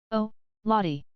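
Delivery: hint of a startled scream. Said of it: "screamed Miss Amelia".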